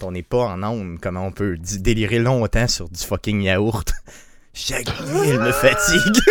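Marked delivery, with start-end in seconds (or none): 4.5-6.2 laughing squeal. Pretend. Slogan squeaked through laughter.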